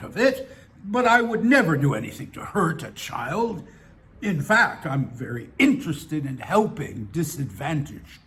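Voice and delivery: hesitant, self-excusing old man, lightly voiced; lightly voiced old bar acquaintance. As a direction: lightly act an old man justifying himself.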